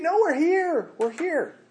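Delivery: high, firm call of staying put; Paul calling back to the jailer, loud and firm; loud refusal. Acted. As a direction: plant your feet and call out.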